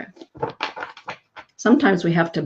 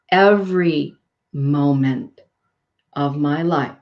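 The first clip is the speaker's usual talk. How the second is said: slow affirmation; 2 semitones lower than usual. Shown as a demonstration. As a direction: say it slowly as a gift to yourself. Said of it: "I want you to repeat that".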